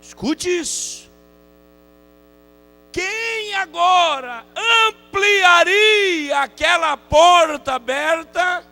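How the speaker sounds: high, slow, shouted pulpit delivery; soaring, loud revivalist cry; full-force preaching. Acted. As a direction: hurl the question at the congregation, stretching the words.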